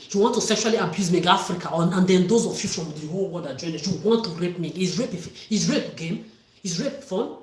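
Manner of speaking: loud, accusing tirade; angry shouting. Real, not acted. Accusing a whole country, shouting.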